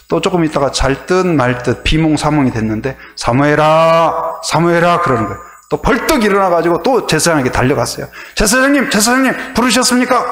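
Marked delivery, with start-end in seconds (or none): 3.2-5.0 slow, drawn-out calling of a name; God calling. Retold or imitated. God calling sleeping Samuel, slow and drawn out. 8.4-10.3 put-on high, breathless child's call; a little boy rushing in, voice up high; eager boy calling. Samuel running to Eli, calling high and eager.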